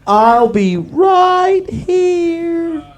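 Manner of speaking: alien voice. Acted. Alien farewell line.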